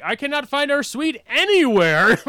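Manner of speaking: loud, high, stilted robot voice; robotic. Retold or imitated. Drunk fan covering up in front of his idol, robotic. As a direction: announce it like an alien trying to blend in. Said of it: "I sound like a robot".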